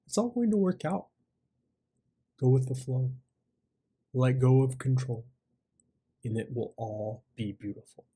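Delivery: lightly voiced calm reassurance, phrase by phrase; still inner voice. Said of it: "still voice that really was saying".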